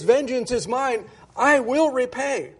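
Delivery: "I" weighted, "will repay" slowed and lifted; stress on I will repay. Shown as a demonstration. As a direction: lean hard on "I will repay", drawing it out. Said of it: "I'm emphasizing that".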